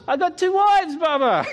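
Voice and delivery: high, animated character voice; imitated Malawian guard. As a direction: answer as the guard, pitched well up. Voicing the guard's punchline.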